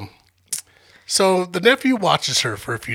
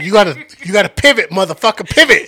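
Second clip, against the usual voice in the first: yelling; 6 dB louder than usual. Retold or imitated. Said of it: "She's like".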